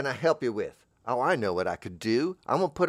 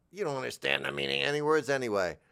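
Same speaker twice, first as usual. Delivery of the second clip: mock retort; 4 semitones higher, faster than usual. Acted retort to the speaker.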